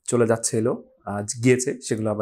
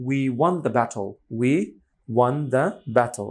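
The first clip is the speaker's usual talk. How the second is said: slow example sentence; much slower than usual. Shown as a demonstration. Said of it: "sentence সহকারে পড়ি".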